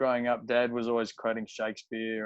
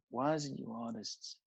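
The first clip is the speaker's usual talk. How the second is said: Cajun line read. Retold or imitated. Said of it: "it was something like".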